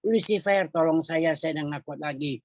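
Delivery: imitated cry to Lucifer, high start falling away; mock plea for help. Spirit calling its devil commander for help, mock plea. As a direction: call out high, then sink back. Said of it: "Dia panggil komandan iblisnya".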